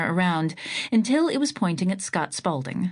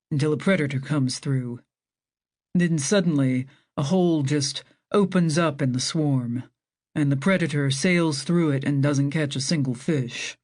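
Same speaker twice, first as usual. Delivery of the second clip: lower, eager scientist voice; Lena voice; 4 semitones lower than usual. Acted. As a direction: enthusiastic marine biologist explaining fish swarms.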